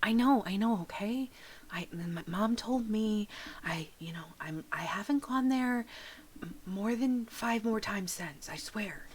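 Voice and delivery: put-on nervous kid whispering; whispered kid. Kid denying sneaking out, whispering. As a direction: hush it so mom won't hear.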